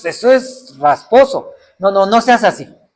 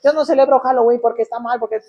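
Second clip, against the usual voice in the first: put-on child's voice; 4 semitones higher, faster than usual.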